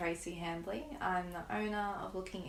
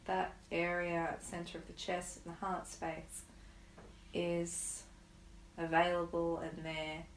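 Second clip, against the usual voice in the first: guided meditation. Acted. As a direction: ease them into stillness, unhurried. Leads a guided grief meditation.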